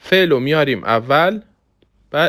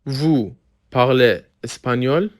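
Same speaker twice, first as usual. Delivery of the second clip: slow, word by word; much slower than usual. Shown as a demonstration. Slow model, then intonation question.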